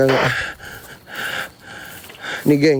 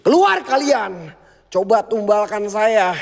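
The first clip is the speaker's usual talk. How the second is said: higher, slow challenge; daring the spirits; 5 semitones higher, slower than usual. Real, not acted. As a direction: provoke the spirits to come. (menantang makhluk halus dengan lantang dan pelan)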